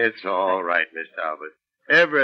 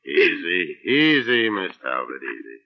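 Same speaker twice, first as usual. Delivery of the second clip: soothing; 6 semitones lower than usual. Acted. Inspector calms terrified woman.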